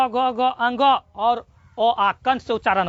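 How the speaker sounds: drawn-out throat sounds for pupils; slow sound demo. Shown as a demonstration. Teacher to pupils, slowly sounding out throat letters. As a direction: stretch ग, घ, अंग and ओ slowly from the throat. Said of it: "बोलो, बोलो मुंह से".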